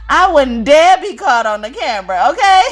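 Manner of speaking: high, loud mock-prim friend voice; quoting her shy friend. Speaker imitating her friend refusing the camera, high and loud. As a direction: put on her prissy friend's voice, laughing. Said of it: "she was like".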